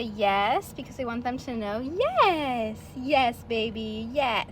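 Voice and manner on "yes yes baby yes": put-on lilting happy yes, stretched slow on baby; super happy voice. Shown as a demonstration. Trainer showing owners the happy praise voice for puppies. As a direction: coo the yes so the puppy knows it's praise. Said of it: "talk to them in a super happy voice".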